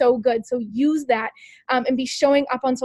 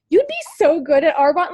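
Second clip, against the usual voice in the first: smiling and laughing; 3 semitones higher, 4 dB louder than usual. Retold or imitated. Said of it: "smiling and laughing about it".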